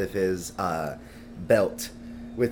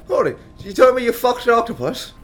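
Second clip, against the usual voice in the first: high-pitched, louder disbelief; incredulous outburst; 11 semitones higher, 5 dB louder than usual. Acted. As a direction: blurt it out in shocked disbelief. Player reacts to captain's scandal.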